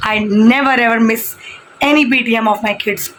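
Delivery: I never ever miss drawn out slowly word by word; slow, emphatic promise. Real, not acted. Mother tells viewers about her kids' PTMs, slow and emphatic. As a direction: spell out each word of the pledge, very slowly.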